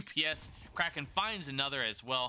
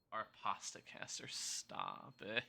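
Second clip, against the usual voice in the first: whispered plea; 3 semitones lower, 9 dB quieter, slower than usual. Real, not acted. Teased as pasta caster.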